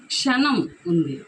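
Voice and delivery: క్షణం drawn out slowly; slow emphasis. Shown as a demonstration. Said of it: "ఇక్కడ చూడండి". (క్షణం నెమ్మదిగా నొక్కి)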